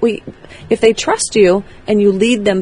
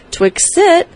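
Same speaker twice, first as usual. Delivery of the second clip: happy, strong leader's cue, pitched up; pleasant, calm command; 9 semitones higher than usual. Shown as a demonstration. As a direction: give the dog a positive, confident command. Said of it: "you sound pleasant, happy, calm, strong".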